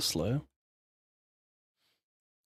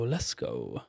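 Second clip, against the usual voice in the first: much lower, growled let's go; deep voice; 13 semitones lower, 7 dB quieter than usual. Pretend. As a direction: drop way down and growl it. Low growled hype.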